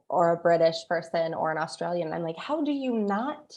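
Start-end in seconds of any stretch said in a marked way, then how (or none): 2.4-3.5 mock incredulous. Reacting to people who can't tell accents apart, incredulous. Acts out disbelief at mixed-up accents.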